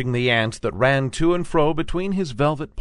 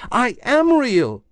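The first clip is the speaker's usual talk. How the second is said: high, slow, louder tiny rabbit voice; little rabbit insisting; 13 semitones higher, 5 dB louder, slower than usual. A narrator's reading. Toy rabbit insisting to the wild rabbit, high and slow. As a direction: plead your case as a toy bunny. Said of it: "said the little rabbit".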